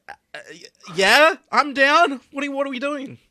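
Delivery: squeaky excited punk rocker. Acted. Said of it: "he was like".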